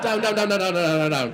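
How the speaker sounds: barking sit-down orders, loud; loud commanding repeat. Real, not acted. Comedian orders audience down, loud and urgent. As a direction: herd them back into seats.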